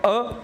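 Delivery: अ as a short schwa "uh"; letter sound. Shown as a demonstration. Teacher giving pupils A's first sound, short अ. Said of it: "तो उसके दो sound हो सकते हैं".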